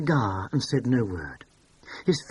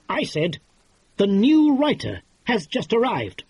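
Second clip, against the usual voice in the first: sudden realization; 9 semitones higher, 5 dB louder than usual. A narrator's reading. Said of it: "struck with enlightenment".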